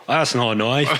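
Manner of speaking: lightly imitated Australian movie line; Crocodile Dundee. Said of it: "some Crocodile Dundee trailer".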